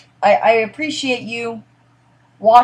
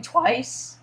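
voice crack; 5 dB quieter than usual. Real, not acted. Streamer apologising to viewers, accidental voice crack. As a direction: voice cracking upward on the word. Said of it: "did you guys just hear that voice crack?".

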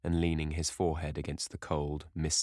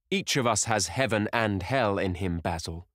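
raised, higher voice, falling away on the name; despairing cry; 3 semitones higher, 4 dB louder than usual. Acted. Young man defends himself to the painter, crying out in despair. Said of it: "cried Dorian, with a wild gesture of despair".

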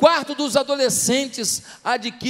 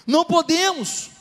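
emphatic denial; 6 semitones higher, 5 dB louder, slower than usual. Real, not acted. Preacher answers his own question.

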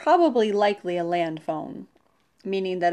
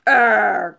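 short, loud storybook growl; frustrated roar; 9 dB louder than usual. A narrator's reading. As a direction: let out a loud "arrr" of exasperation. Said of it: "roared Mister Lion".

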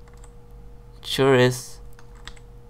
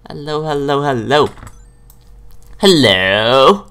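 cave echo; 5 dB louder, slower than usual. Pretend. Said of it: "The echo in this cave is crazy".

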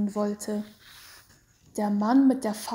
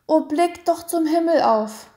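high, louder imploring; pleading; 6 semitones higher, 7 dB louder than usual. A narrator's reading. Genoveva pleads with the executioners, imploring. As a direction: implore them to look up. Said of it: "zu bitten und zu flehen".

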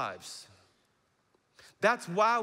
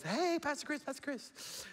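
high, fading to a whisper; higher voice calling his name, trailing into a whisper; girl calling out; 9 semitones higher, 6 dB quieter than usual. Retold or imitated. Woman in the parking lot calling the pastor, high and fading. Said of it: "She goes".

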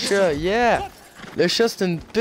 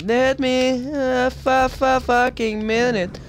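slow, drawn-out frustrated plea; exasperated; 4 semitones higher, slower than usual. Real, not acted. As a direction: beg for a minute, annoyed. Frustrated gamer pleading for time.

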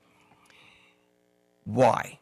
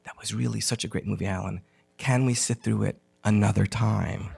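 coy coaxing; 4 semitones lower than usual. Retold or imitated. Marla batting her eyes at her friend after the movie, coy coaxing. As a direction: lightly mimic a flirtatious plea. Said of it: "bats her eyes at me".

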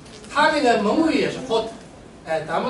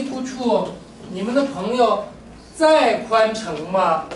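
drawn-out phrase for students to copy; slow model sentence; much slower than usual. Shown as a demonstration. Teacher slowly modelling a question for the class. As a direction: spell it out slowly, word by word. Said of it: "teacher models sentence slowly".

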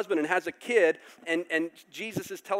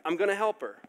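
exasperated giving in; 5 semitones higher, 9 dB louder than usual. Retold or imitated. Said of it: "the judge is like".

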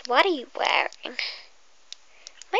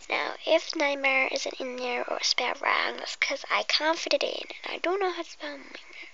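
whisper. Acted. Whispering to the viewer before the pretend hairdresser game. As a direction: breathe every word like an ASMR intro.

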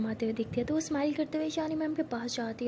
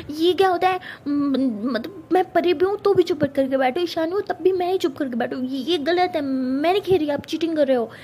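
put-on louder, sulky childish protest; 2 semitones higher, 6 dB louder than usual. Pari loudly protesting to Ishani that she cheats. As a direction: complain loudly she's cheating.

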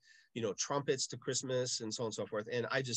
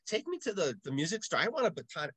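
put-on demanding kid; 6 semitones higher, 3 dB louder than usual. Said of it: "So I told my mom".

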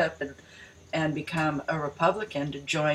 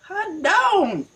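mock hick exclamation; 13 semitones higher, 4 dB louder than usual. Mocking excitement.

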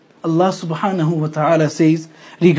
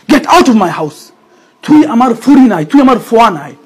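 angry parent; 4 semitones higher, 5 dB louder than usual. Retold or imitated. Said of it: "because of that hurt, they say certain things".

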